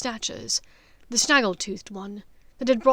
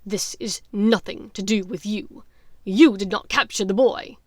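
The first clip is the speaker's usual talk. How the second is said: louder curt retort; mild angry snap, louder; snapping back; 7 dB louder than usual. Acted. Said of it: "Lucius snapped back".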